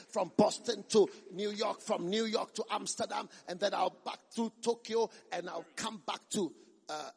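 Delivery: loud start, steady itinerary recital, trailing into hesitant uhs; mock jet-setting preacher. Travelling preacher boasting of trips to America, mock declamation. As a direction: imitate a preacher proudly listing destinations. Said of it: "No, they say".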